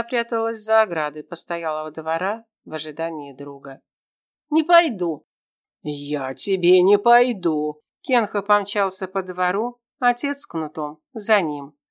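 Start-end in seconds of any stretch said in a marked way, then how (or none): 4.5-5.3 put-on high, loud boy's shout; boy refusing his father, shouting; defiant refusal. 5.8-7.8 slow, louder, menacing father; father mocking his son's refusal, menacing; threatening retort.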